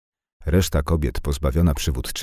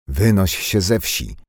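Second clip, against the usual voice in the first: slow, spiteful order, pitched higher; venomous; 5 semitones higher, 4 dB louder, slower than usual. Acted. Village woman driving Nadia out, slow and venomous. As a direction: spit it out with contempt. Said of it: "powiedziała zjadliwie".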